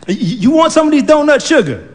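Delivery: put-on high, quick old lady; old woman voice. Old woman offering donuts in the car, high and quick. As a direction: offer it sweetly.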